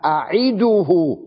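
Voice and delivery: أعده said slowly with an i vowel, a'iduhu; correct form. Shown as a demonstration. Teacher to students, slow careful أعده. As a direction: draw out أعده clearly as a'iduhu. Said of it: "وليس أعوده".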